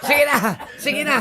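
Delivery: tipsy, loose and repetitive. Real, not acted. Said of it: "ako'y lasing na lasing".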